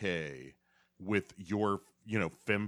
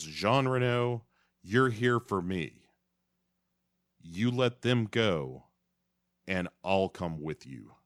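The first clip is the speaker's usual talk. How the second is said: heroic agent voice; 3 dB louder than usual. Acted. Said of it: "stands up straight and tall and says".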